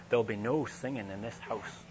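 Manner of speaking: lightly imitated Scottish maid's warning; a hint of a stern Scottish housekeeper's voice; strong Scottish accent. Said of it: "with this sort of strong Scottish accent".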